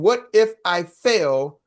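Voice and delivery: What if I fail stretched out slowly, every word weighed; slow, drawn-out doubt. Shown as a demonstration. Coach slowly voicing a fearful trainee's doubt. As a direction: let What if I fail crawl out anxiously. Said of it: "if you're thinking".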